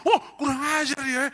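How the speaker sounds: high, loud offended yell; angry outburst. Acted. Offended manager yells at worker. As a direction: explode at the insult.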